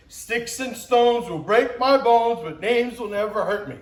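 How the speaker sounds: put-on childhood rhyme recited. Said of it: "something we would recite".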